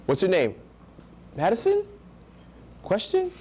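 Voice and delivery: "Madison?" and "Question?" lifted high at the end; low value uptalk. Shown as a demonstration. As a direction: turn "Madison" into an unsure question. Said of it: "That's low value tonality".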